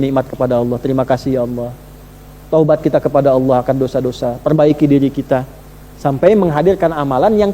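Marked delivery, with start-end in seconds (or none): 0.8-1.7 grateful prayer. Pretend. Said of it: "tiap kali lihat matahari, syukuri".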